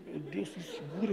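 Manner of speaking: soft laugh breaking through the words; giggle, barely holding it together; quiet laughing plea; laughing fit. Retold or imitated. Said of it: "Eu comecei a rir".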